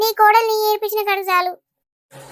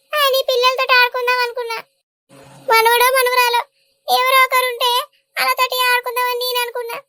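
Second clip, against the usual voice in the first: mock tragic mother's lament; fake lament; 3 semitones higher than usual. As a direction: ham up the grief to guilt her son. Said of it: "ఏం acting".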